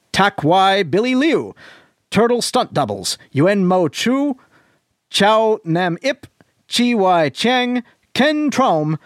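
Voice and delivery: announcer voice. Shown as a demonstration. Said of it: "in your best announcery voice".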